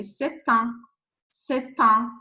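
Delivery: "c'est un" with the T sounded clearly; French demo of "c'est un", T kept; T pronounced. Shown as a demonstration. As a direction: sound the T in "c'est un" before the nasal vowel. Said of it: "we don't cancel T".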